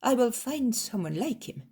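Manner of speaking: loud, high, wheedling landowner; greedy master voice. Acted. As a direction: coax him with greedy excitement. Greedy master tempting Jesus.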